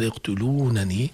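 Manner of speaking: slow rising "يقتلونني" with both n's sounded; original two nuns. Shown as a demonstration. Teacher repeats the full form, slow "يقتلونني". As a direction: say "يقتلونني" as yaqtuluunanii, long vowels. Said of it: "أصل".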